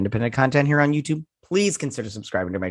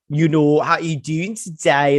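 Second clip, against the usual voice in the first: louder, drawn-out mock British greeting; imitated British accent; 4 semitones higher, 4 dB louder, slower than usual. American imitating online Brits' chat, mock British accent. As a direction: put on a stretched British accent. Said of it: "a lot of British people are all like".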